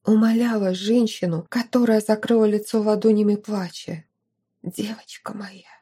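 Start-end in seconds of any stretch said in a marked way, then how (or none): 4.6-5.7 whispered through sobs, no voice; sobbing whisper. A narrator's reading. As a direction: choke out "my girl" in a tearful whisper. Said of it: "всхлипывала графиня".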